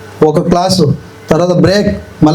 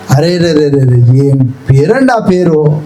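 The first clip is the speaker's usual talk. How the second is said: lower, slow marvelling; drawn-out amazed arre re re; awed exclamation; 6 semitones lower, slower than usual. Acted. Preacher marvelling at Jesus' name, slow awe.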